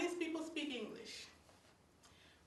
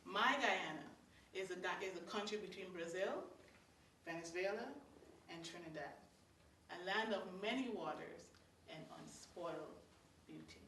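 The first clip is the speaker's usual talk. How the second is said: heartfelt recitation; 4 semitones lower, 7 dB quieter than usual. Acted. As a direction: savour each phrase like a love poem. Recites tribute again.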